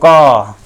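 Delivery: क said with the throat pressed shut. Shown as a demonstration. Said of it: "कंठ को दबा के बोल के देखो". (कंठ दबाकर क)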